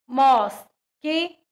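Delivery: careful classroom modelling of Crocodilo; slow syllable demo. Shown as a demonstration. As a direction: spell out Crocodilo for children, syllable by syllable. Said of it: "teacher models example word".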